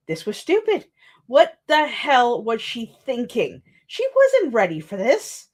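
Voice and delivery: reading her draft with a light dramatic lift; lightly voiced tense scene, a panicked girl's thoughts; story reading. Reads her own draft aloud.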